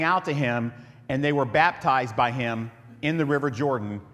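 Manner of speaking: steady, measured Bible reading voice; formal scripture reading aloud. Acted. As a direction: read it out like the pulpit Bible. Reads scripture passage.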